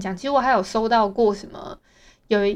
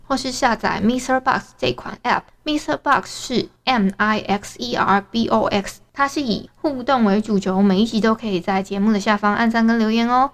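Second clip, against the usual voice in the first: podcast outro. Acted. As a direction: sign off the show like an ad. Podcast outro promo read.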